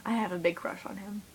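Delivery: a secret breathed under the breath; whispered confession. Real, not acted. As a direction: whisper it so no one hears. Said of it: "I'm gonna say it".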